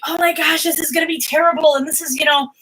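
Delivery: high, quick hammed-up alarm; mock panic. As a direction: act out your own spiral of dread.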